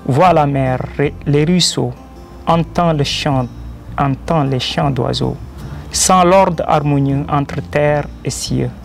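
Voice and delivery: measured devotional verse, a pause after each line; poem recitation. Acted. Poet reciting his verses in praise of the Creator, poem recitation. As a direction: declaim rhymed praise line by line.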